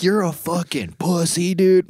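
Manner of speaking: high-pitched mock heckling; half-earnest yell at the screen; retold yelling. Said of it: "yelling at him".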